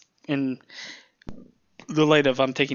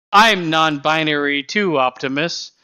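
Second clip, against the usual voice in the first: mock robot character; 3 semitones higher, 6 dB louder than usual. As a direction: imitate a robot's earnest declaration, starting loud. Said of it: "the robot's like".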